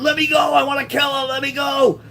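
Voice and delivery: high, frantic retold shout; acted-out scream. Teenager pulled away from a fight, re-enacted high scream. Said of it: "and I'm screaming".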